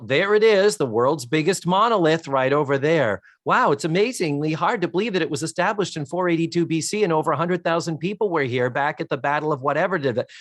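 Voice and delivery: infotainment patter. Acted. Forcing facts into film dialogue, mock infotainment patter. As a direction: reel off facts like a mildly hammed-up guide. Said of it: "we need to make this informational".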